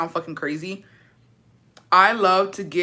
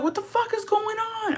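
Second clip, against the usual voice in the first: retold disbelief; 5 dB quieter than usual. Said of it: "And I was like".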